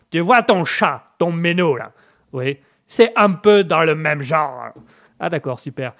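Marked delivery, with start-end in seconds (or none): 0.1-4.7 lightly voiced American coach; American accent. Coach explaining old-school methods, slight American drawl. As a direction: stretch the French with an American accent. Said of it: "des cours avec l'anglais et l'américain".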